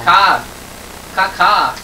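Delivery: high loud screeching caws; shrill screeching bird woman. Acted. Imitating game bird cry.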